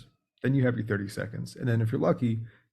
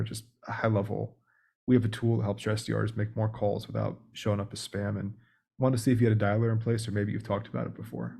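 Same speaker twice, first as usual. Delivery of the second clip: demo cold call pitch. Shown as a demonstration. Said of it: "Then you give your pitch".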